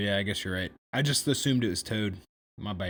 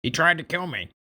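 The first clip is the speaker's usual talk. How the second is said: mildly whiny, higher-pitched accusation; Toad; 5 semitones higher, 4 dB louder than usual. Acted. Toad accuses John to the armorer, higher complaining voice. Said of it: "with an unpleasant voice".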